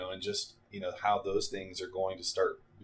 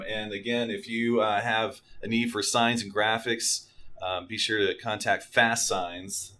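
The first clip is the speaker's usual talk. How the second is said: upbeat radio announcer sign-off; 7 dB louder than usual. Pretend. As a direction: sell it like a radio ad read. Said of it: "Why don't you take us out, a little radio voice?".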